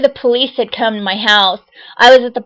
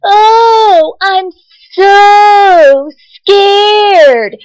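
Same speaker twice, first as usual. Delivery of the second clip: high, loud, hammed-up scared voice; sarcastic mock terror, pitched way up; mocking fake fear; 9 semitones higher, 6 dB louder, much slower than usual. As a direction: mimic a stranger faking fright to taunt. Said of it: "and she goes".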